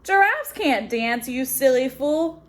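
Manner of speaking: sneering. Acted. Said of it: "the animals all sneered".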